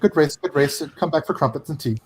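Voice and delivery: lightly voiced British team boss; genteel mock-British congratulations; fake British accent. Engineer calls driver in for tea, in fake British accent. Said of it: "with the worst fake British accent".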